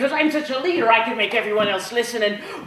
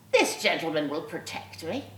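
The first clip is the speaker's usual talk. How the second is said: sweet voice; 6 semitones lower, 10 dB quieter than usual. Retold or imitated. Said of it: "sweet voice".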